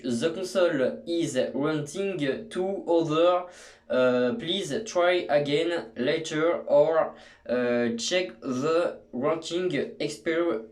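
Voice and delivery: slow, deliberate mock English accent; put-on English accent. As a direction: read it out in a hammed-up English accent. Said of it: "fait l'effort de faire mon accent anglais". (accent anglais exagéré, lentement)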